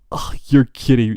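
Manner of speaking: whispered exasperated mock line; imitating Ida. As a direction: breathe it out as a mock exasperated aside. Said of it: "He's like".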